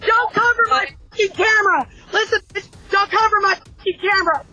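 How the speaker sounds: swearing tirade. Real, not acted. Homeowner curses at cop covering camera.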